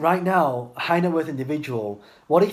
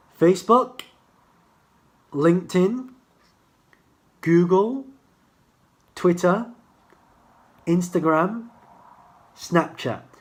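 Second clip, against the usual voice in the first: at an easier, slightly slowed-down pace; 3 semitones higher than usual. Repeating a list of social media sites for listeners, a little slower. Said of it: "let me do it a little bit slower".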